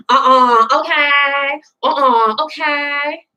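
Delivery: mock the sassy TV character, head rolling; lightly hammed-up sassy brush-off; sassy neck-roll attitude. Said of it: "These bad attitudes, these neck rolls".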